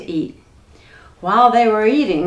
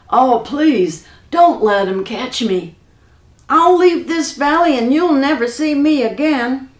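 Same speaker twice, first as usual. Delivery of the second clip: urgent begging, a little raised; pleading; 4 semitones higher, 4 dB louder than usual. Acted. Frightened giant begs Jack for help, pleading. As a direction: beg with a touch of fear.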